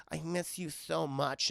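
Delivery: slow, mock-lovesick murmur; tender longing. Girlfriend texting boyfriend while away, slow and tender. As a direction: draw it out like a pining text. Retold loving text message.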